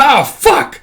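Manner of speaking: loud, high yelp and curse; pained shout. Acted. Storyteller as Micah with his head being chomped, pained shout. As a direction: cry out as if suddenly bitten.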